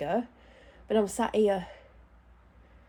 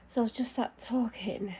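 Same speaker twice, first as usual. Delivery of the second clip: ordinary delivery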